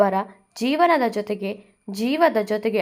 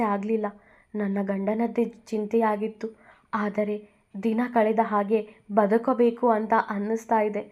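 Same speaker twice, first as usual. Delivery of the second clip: crying plea. Acted. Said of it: "ಅಳುತ್ತಾ ಕೇಳಿದ್ದಳು ಭುವಿ".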